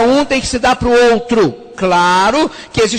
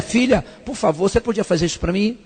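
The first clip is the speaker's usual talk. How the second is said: polite request; 2 semitones lower, 6 dB quieter than usual. Retold or imitated. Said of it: "o marido vai pedir à mulher".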